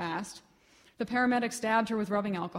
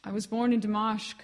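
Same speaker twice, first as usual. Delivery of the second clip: shouting; 4 dB louder than usual. Acted. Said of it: "Sam shouted to a woman".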